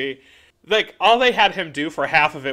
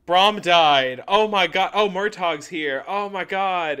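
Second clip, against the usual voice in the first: higher, breathless mock panic; mock frantic panic; 5 semitones higher, 4 dB louder than usual. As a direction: rattle it off like a frantic fan.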